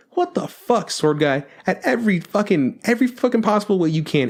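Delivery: high, incredulous rant at Sword Guy; exasperated outburst. Retold or imitated. Fan ranting at Sword Guy in disbelief, high exasperated. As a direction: voice climbing in disbelief. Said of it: "I was like".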